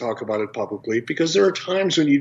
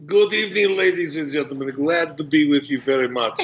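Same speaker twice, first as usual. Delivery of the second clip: put-on Russian accent. Guest greets podcast hosts in a light mock Russian accent. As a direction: greet like a hammed-up Russian TV character. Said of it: "that was a Russian accent".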